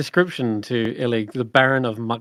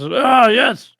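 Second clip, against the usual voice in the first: herald cheer; 2 semitones higher, 3 dB louder than usual. Acted. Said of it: "Murtops cheers".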